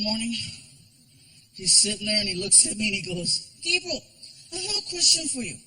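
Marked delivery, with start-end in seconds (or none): 3.6-5.6 put-on higher, innocent child; kid voice. Son asking his dad at breakfast in a kid voice. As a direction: ask like a curious little boy.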